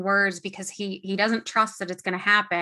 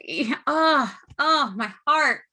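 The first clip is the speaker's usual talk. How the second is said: swooning; 3 semitones higher, 4 dB louder, slower than usual. Real, not acted. Overcome by a touching scene.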